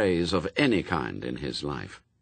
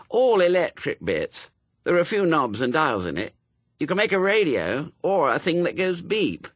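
put-on higher, louder, keen boy; eager boy Wensleydale; 9 semitones higher, 4 dB louder than usual. A narrator's reading. Wensleydale telling friends about his kit, eager boy. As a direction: show off a Christmas kit eagerly.

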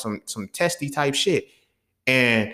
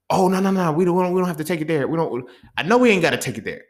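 higher-pitched, hurried-off protest; retold backpedaling; 4 semitones higher than usual. Classmate declining the fair one, backpedaling. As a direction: back out of the fight, pitched up.

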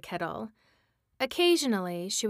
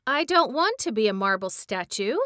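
mild protest; 6 dB louder than usual. Acted. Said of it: "he protested".

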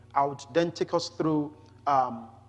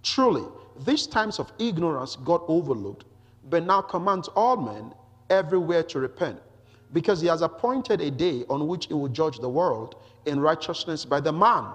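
emphatic, slightly raised public reading; scripture reading. Acted. Preacher reads Paul's Athens speech to the congregation, emphatic scripture reading. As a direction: read the passage out firmly to a congregation.

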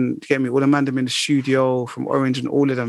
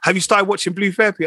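lightly voiced mum, pitched up; imitated mum; 5 semitones higher than usual. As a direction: ask it as mum, a bit higher. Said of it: "And then she goes to me".

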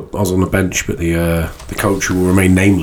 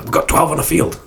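hushed, higher panicked whisper; urgent whisper; 6 semitones higher than usual. Retold or imitated. Coach hissing to his staff about twelve on the field, whispered. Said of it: "He's like".

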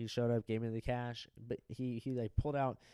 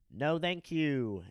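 louder, higher, drawn-out refusal; insistent call; 4 semitones higher, 5 dB louder, much slower than usual. Retold or imitated. Guest turning away knocking housekeeper, loud and insistent. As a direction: stretch it out as a firm call.

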